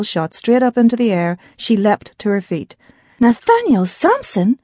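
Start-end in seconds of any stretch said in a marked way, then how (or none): 3.2-4.6 slower, stunned echo of the name; startled repeat. Acted. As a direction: let the name hit her, slowly. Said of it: "Her eyes widened".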